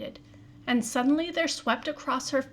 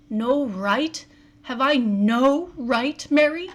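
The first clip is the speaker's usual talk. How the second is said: rising, louder and slower plea; unsteady pleading; 6 dB louder, slower than usual. Acted. Husband pleading with wife, rising unsteady plea. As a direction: beg her, voice climbing. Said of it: "he said unsteadily".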